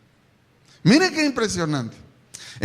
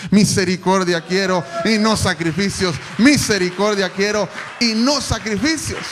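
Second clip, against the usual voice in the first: loud proclaiming; 6 dB louder than usual. Shown as a demonstration. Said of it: "repeats the verse, building".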